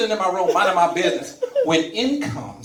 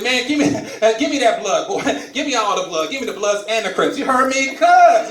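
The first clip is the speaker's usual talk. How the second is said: laughing eager bravado; 3 semitones higher, 3 dB louder than usual. Retold or imitated.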